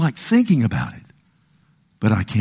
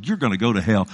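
smug condemnation; faster than usual. Retold or imitated. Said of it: "I hear people say that".

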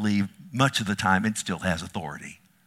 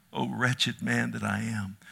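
quiet lament; 3 dB quieter than usual. Retold or imitated. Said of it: "He says".

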